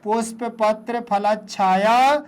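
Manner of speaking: words linked, last word drawn out; read in one go. Shown as a demonstration. Teacher shows pupils how to read it in one go. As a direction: join the words, stretch the final vowel. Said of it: "ऐसे पढ़ेंगे ना तो एक बार में".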